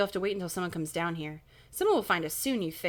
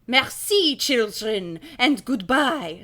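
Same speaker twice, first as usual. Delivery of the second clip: raised, drawn-out farewell call; big theatrical goodbye; 3 semitones higher, 7 dB louder, much slower than usual. Acted. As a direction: call it out higher and louder, stretching the last word. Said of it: "Red calls".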